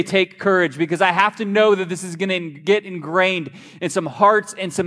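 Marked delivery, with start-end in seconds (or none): 0.0-0.8 the answer you want the church to shout; congregation response. Shown as a demonstration. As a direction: call it back as a group reply. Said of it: "I need you to say".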